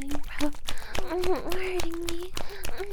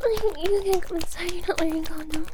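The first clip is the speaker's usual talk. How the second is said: voiced out louder, insistent; firm louder protest; 5 dB louder than usual. Warning her partner out loud. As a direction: say it out loud this time, firmly. Partner about to finish inside.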